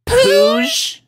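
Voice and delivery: very high, loud baffled question; high, loud confused pooch; puzzled together. A narrator's reading. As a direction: ask it in disbelief. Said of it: "they asked simultaneously".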